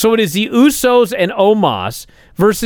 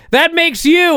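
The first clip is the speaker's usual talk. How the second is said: quoting A J; 10 semitones higher than usual. Retold or imitated. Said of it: "And A J says".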